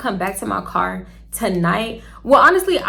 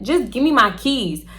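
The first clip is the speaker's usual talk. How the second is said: slower, understated irritation; clearly irritated. Retold or imitated. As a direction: retell a demand with drawn-out, fed-up emphasis. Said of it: "Like, clearly irritated".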